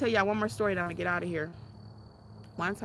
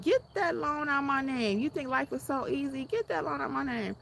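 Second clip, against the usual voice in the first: stern father; 6 semitones higher than usual. Retold or imitated. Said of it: "he was like".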